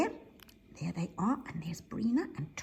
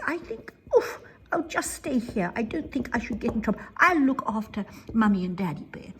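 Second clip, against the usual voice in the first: timid little bear; 4 semitones higher, 5 dB louder than usual. Acted. Buzzy bear staying behind.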